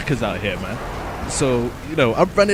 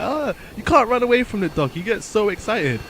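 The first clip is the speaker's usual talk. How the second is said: dog owner; 8 semitones higher than usual. Retold or imitated.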